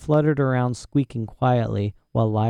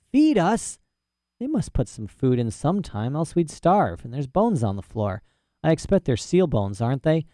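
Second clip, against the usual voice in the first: put-on eccentric old professor; 3 semitones higher than usual. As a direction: play a proud, rambling old professor. Professor answers about food.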